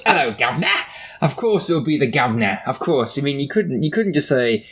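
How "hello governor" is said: imitating the jokey Cockney greeting, rising end; mock Cockney. Host mimicking co-host's attempt at his local greeting, mock Cockney. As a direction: parrot it back in exaggerated Cockney. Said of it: "Cockney, Cockney, Cockney".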